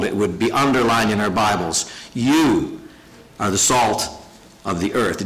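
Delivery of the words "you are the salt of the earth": You hit firmly, then a pause; You set apart by a pause before are the salt; stress on You. Shown as a demonstration. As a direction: lean hard on You, as if in bold. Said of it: "we would have this in bold".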